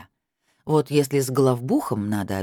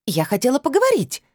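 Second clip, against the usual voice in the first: high, louder squealed protest; squealing; 11 semitones higher, 3 dB louder than usual. A narrator's reading. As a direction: squeal it, much higher. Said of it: "взвизгнула блондинка".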